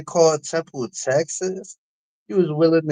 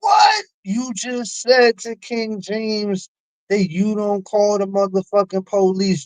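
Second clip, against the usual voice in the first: incredulous shout; 5 semitones higher, slower than usual. Real, not acted. Host calling out S1's contradiction, shouted disbelief. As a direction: shout it in real disbelief, drawing out the rest.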